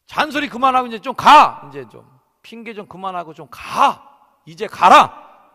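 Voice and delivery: loud, high, exasperated shouting; divine anger. Acted. God fed up with Moses' excuses, angrily urging him to go. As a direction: burst out, building to a forceful order. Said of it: "그런 그 하나님의 분노가 느껴지는".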